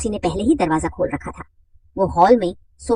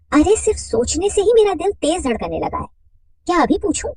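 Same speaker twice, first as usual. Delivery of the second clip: higher, flustered; nervous woman's voice; 10 semitones higher than usual. Acted. Radha telling her friend her heart races, higher. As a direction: lift it up, a little flustered.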